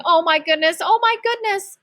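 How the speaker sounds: panicked driver's relief; lady from the car, shaken; shocked. Acted. Driver shocked after near crash.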